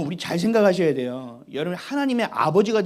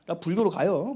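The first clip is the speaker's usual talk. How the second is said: 1 mock threat to God. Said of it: "막 협박도 하고 그랬어요".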